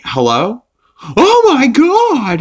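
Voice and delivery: high, slow, drawn-out gasp of alarm; shocked phone gasp. Retold or imitated. Lois answering a phone call, high shocked gasp. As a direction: gasp into the phone as if hit by terrible news. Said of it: "She's like".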